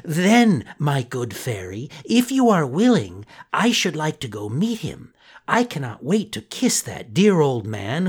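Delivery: a lightly voiced excited boy; Pinocchio voice. Pinocchio's voice in story.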